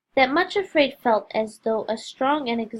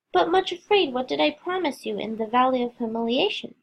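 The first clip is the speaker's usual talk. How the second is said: with a smile. Acted. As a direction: ask it with a smile. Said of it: "asked the shepherd with a smile".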